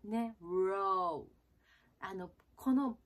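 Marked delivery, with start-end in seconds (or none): 0.4-1.3 ろ as English "wro", rounded u into R; R started from う. Shown as a demonstration. Coach repeating the example, u-led English-R ろ. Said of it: "うから".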